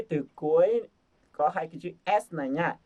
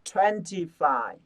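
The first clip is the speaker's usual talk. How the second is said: drawn out, each syllable clear; slow model reading; much slower than usual. Shown as a demonstration. Teacher modelling the number slowly. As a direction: say it slowly for the class to copy. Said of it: "teacher models slow reading".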